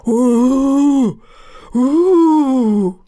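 loud, eerie ghost moan; ghostly wail. Acted. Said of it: "rief schauerlich".

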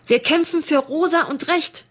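proud war cry of the pink ravens; battle slogan. Acted. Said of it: "hieß der Kampfruf der Rosaroten".

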